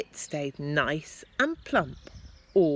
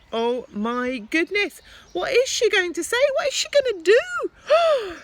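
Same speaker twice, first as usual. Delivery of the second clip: building suspense; 7 dB louder than usual. Acted. Teacher builds suspense for children.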